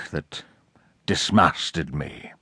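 slow hoarse whisper; a grim admission whispered slowly. A narrator's reading. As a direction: let the words fall to a whisper. Captain confesses his maiming.

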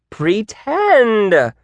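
high, emphatic command; exclaiming. A narrator's reading. Teacher overruling a doubting student, high emphatic order. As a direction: insist on it, pitch falling at the end. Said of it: "ended in an exclamation mark".

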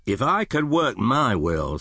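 indignant. Acted. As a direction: sound affronted and fed up. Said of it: "said Scrooge indignantly".

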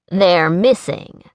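slow, dry and deadpan; slow deadpan remark on her bare legs. Acted. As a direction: state it dryly, slowly. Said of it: "Colt pointed out dryly".

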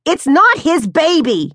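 high, loud desperate cry; screaming mother. Acted. Mother to husband mid-fight, desperate shout. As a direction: make him hear it.

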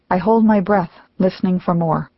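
plain reading voice

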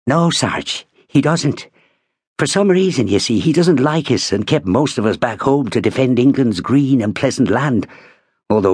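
eager young soldier with a hint of Irish accent. Bertie chatting to the sergeant, eager Irish accent. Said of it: "He's Irish, Sarge".

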